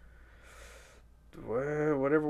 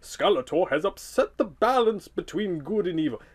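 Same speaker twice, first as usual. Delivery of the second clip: Merlin type wizard; 4 semitones higher, faster than usual. Shown as a demonstration. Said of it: "I would do something like this".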